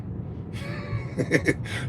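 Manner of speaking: quiet, breathy chuckle; wheezy laugh. Real, not acted. Roasting Shannon over LeBron, quiet wheezy laugh. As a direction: laugh to yourself almost without voice.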